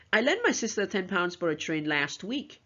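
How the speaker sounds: LAST WEEK leaned on at the end of the sentence; stress on LAST WEEK. Shown as a demonstration. Teacher shows emphasis on the time, stressing "last week". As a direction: save the weight for "last week". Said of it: "stress on the very last two words".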